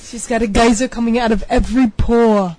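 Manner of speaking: loud, dramatic ad-man voice; announcer voice. Pretend. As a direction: sell it like a TV ad. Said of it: "I went into the voice again".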